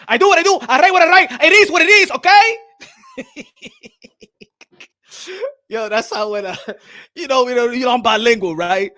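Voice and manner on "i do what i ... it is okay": higher, louder defiant declaration; hammed-up defiant shout; defiant boast. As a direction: boast like a proud champ. Defiant Canelo-style boast.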